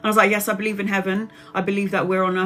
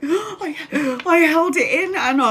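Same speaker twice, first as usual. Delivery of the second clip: much higher, laughing frail mum voice; imitating mum; 9 semitones higher than usual. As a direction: play the frail mum insisting, giggling. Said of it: "And she's like".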